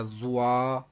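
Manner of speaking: زوا drawn out slowly with a z and w glide; slow wrong-way زوا; wrong zwa. Shown as a demonstration. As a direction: show the mistaken زوا. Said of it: "یہ درست نہیں ہوگا".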